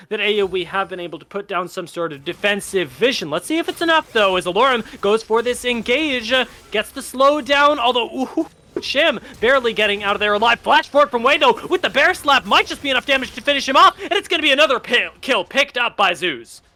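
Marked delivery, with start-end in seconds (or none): 5.7-16.6 fast, rising live fight call; play-by-play. Real, not acted. Caster calling a bear slap attack, quick play-by-play. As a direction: call the kill as it happens, quickly.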